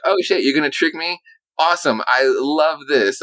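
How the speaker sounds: high, gushing fake delight, dragging out I love this; mock excitement. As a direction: play along like you're thrilled to be tricked. Sarcastic fake delight at prank.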